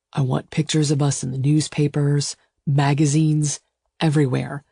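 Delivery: lightly voiced, earnest lover; persuasive male suitor. Suitor argues for a secret wedding, earnestly persuasive. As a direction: coax her with steady urgency. Gideon's voice.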